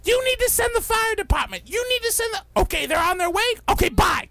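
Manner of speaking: high, urgent frantic voice; frantic homeowner. Retold or imitated. Homeowner telling dispatcher, high frantic voice. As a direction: rattle it off in a panic.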